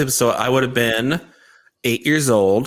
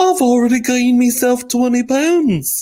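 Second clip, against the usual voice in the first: put-on British royal voice, higher and louder; 13 semitones higher, 4 dB louder than usual. Imagining what Prince Harry would add next: Prince Harry voice. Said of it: "And then he'd be like".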